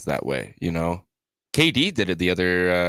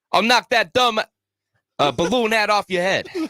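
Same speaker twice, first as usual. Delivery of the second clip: very high, put-on Italian accent; 4 dB louder than usual. Asked to say a line in an Italian accent to see if it's funnier. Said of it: "Say it in your Italian accent".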